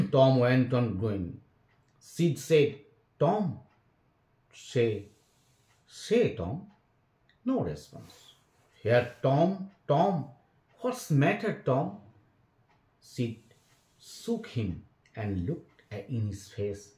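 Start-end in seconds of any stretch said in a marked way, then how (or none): 3.2-12.0 put-on anxious boy. A narrator's reading. Sid anxiously waking Tom.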